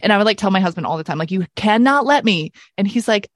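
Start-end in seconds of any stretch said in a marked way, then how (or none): 1.3-2.5 slow, emphatic, higher-pitched demand; firm retold warning; insistent order. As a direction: lay down the rule word by word. Retold order to her husband.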